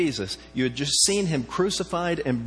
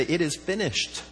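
slow defeated; 3 semitones higher than usual. Retold or imitated. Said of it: "sounded more like".

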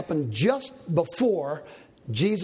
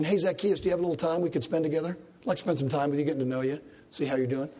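casual friendly invitation; 2 semitones lower, much faster than usual. Shown as a demonstration. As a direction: ask it like a casual friend, no authority. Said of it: "It's not a suggestion".

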